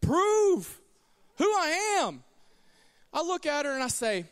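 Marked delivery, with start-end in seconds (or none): 0.0-2.2 eager inner thought. Retold or imitated. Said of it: "I'm like".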